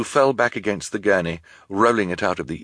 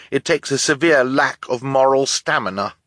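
put-on defiant boy; 6 semitones higher, 3 dB louder than usual. A narrator's reading. Boy defies his attackers.

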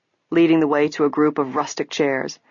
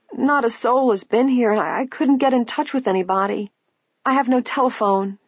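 put-on old woman voice; 7 semitones higher than usual. A narrator's reading.

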